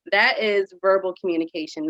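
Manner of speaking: ordinary delivery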